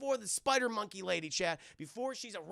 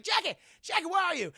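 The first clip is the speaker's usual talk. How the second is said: high, loud mock search call; hammed-up panicked holler; 10 semitones higher, 6 dB louder than usual. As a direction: call out for a lost partner. Voices Tucker calling for Jackie.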